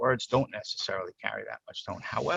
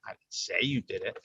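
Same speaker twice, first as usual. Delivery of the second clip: "say" picked out, implying the rest; stress on SAY. Shown as a demonstration. Speaker admitting only an implication, stress on "say". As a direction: put the weight on "say". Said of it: "I might have implied it".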